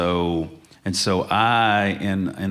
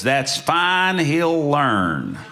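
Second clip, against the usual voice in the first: much higher and louder, airy dismissal with a laugh; breezy teasing lady; 7 semitones higher, 5 dB louder, much slower than usual. Retold or imitated. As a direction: wave it off like a sassy grand dame. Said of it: "And she goes".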